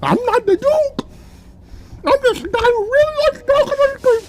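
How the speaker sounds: goofy character voice. Acted.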